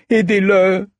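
high, desperate plea; begging. Acted. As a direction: beg them to help. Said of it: "supplia-t-il".

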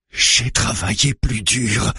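indignant interjection; protesting. A narrator's reading. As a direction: protest it slowly with pitch up. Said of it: "proteste le vieil homme".

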